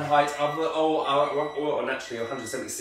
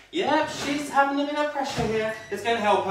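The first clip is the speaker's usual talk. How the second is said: imitated eavesdropper; 9 semitones higher than usual. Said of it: "whispering, and there's me in the kitchen".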